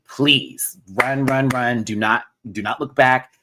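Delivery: urgent plea. Real, not acted. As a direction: beg them to run, don't look back. Repeating the warning more urgently.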